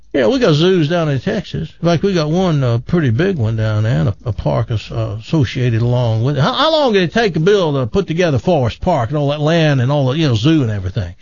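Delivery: lightly voiced loudmouth Texan; bragging Texan. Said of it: "Texas buddy".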